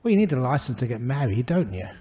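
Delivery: ordinary talk, nothing marked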